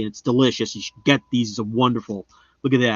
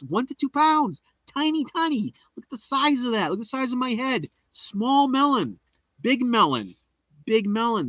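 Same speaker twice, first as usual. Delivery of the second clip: silly high voice; 10 semitones higher than usual. Acted. Silly high voice about melons.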